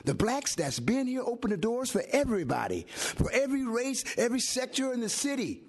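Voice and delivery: impassioned public plea, voice riding up; emotional. Real, not acted. Resident pleading with the commission for black families, emotional. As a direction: plead the case with real heat. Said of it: "Excuse me for getting emotional".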